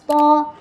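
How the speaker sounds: "po" as a thickened T with rounded O. Shown as a demonstration. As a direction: make "po" a heavy Arabic tho. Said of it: "ta ditebalkan aja".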